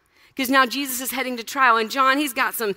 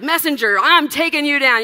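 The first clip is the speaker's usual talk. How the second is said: mock battle cry; 7 dB louder than usual. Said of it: "He's like".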